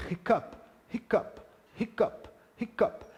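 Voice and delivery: "hiccup" repeated with a clearly breathed H; aspirated h. Shown as a demonstration. Teacher stressing the breathy H of "hiccup". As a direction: push air on the H of "hiccup". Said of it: "o H normalmente ele é aspirado".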